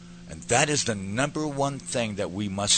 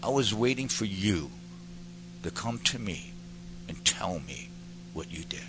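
with love; 5 dB quieter than usual. Retold or imitated. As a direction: gently reassure a son, with long pauses. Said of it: "With love".

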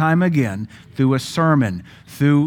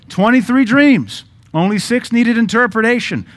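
emphatic preaching; 9 semitones higher, 6 dB louder than usual. Real, not acted. Preacher builds to a point.

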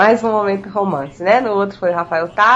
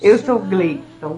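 voz sensual; slower than usual. Shown as a demonstration. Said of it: "faz essa voz".

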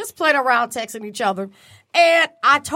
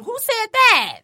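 high mocking Who said that; high, pointed denial; Porsche impression; 9 semitones higher, slower than usual. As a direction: play dumb like a reality star. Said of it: "Porsche on the Housewives".

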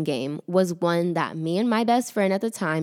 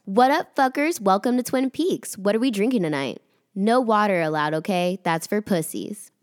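brash waitress greeting. Retold or imitated. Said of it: "and be like this".

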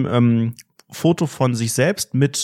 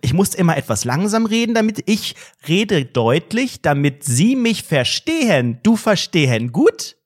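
condescending foreigner talk; 2 semitones higher than usual. Pretend. (herablassend, langsam und höher, wie zu einem Ausländer)

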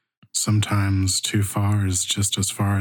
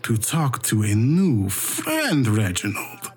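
gentle warning voice; 6 semitones higher than usual. Acted. GM voices a figure.

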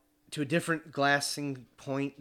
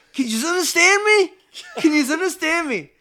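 put-on much higher, louder Norwegian-accented cook's voice; Hagrid-like Norwegian accent; 14 dB louder than usual. Drunk camp cook offering fries to the hunters, loud high Norwegian accent. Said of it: "Hagrid from Harry Potter".

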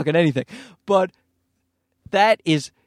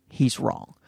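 ordinary talk

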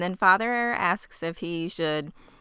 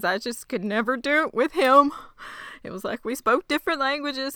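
higher-pitched, imitated tearful voice; mock sobbing; 7 semitones higher than usual. Ed losing it over his son to Father Paul, mock sobbing. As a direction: act out a father starting to break down. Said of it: "loses his shit and starts sobbing".

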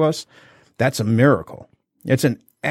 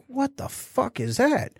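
baffled; 12 semitones higher, 7 dB quieter, slower than usual. Retold or imitated. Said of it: "And I'm like".

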